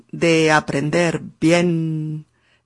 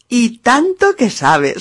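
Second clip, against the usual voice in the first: laughing retort; 6 semitones higher, 4 dB louder than usual. Real, not acted. Rebate riendo, más alto.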